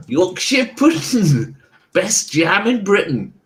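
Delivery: put-on Cornish accent. Seller urging player to engage with culture, light Cornish accent. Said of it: "I'm doing the best authentic accent I can".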